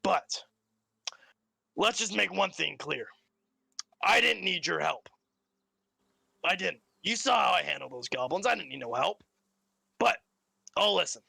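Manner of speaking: a light posh English RP voice; lightly voiced British RP accent. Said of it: "I have to get into my R P voice".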